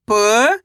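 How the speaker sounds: "प" alone, held and rising; letter by letter. Shown as a demonstration. Teacher leads repeat-after-me, drawn-out rising "प". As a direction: sound out "प" as one long letter. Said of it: "मेरे साथ साथ इनको repeat करना है".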